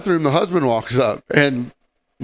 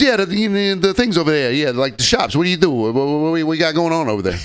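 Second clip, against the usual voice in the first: stammering mock tourist, a bit higher; clueless tourist husband; 5 semitones higher than usual. Husband pointing out the shops, mock clueless stammer. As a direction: imitate a baffled man fumbling his question. Imitating the husband fumbling his question.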